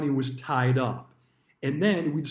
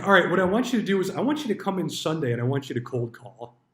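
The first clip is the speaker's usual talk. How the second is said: higher, faster mock boss giving orders; bossy order; 4 semitones higher, faster than usual. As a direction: rattle off the orders like a pushy manager. Manager orders Sunday cold calling.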